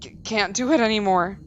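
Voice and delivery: worn down and hopeless; weary man. Acted. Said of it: "I do not do male voices very often".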